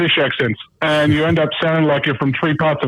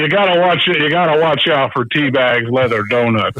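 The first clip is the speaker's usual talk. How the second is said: put-on American accent; 3 semitones lower than usual. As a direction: try on a hint of an American accent. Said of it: "let's hear American Dan".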